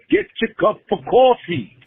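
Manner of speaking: mild Macho Man-style shout; Macho Man impression. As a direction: channel a hyped wrestler telling you to wake up. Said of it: "Like Macho Man said".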